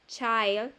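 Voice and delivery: put-on "child" with the vowel of "science". Shown as a demonstration. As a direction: model "child" carefully with an "eye" sound. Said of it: "como science". ("child" con la I como "ai")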